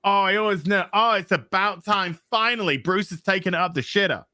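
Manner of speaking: hammed-up gushing praise; mock gushing fans. Mocking online fans gushing over a new comic. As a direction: gush like an easily impressed fan. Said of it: "they'll just be like".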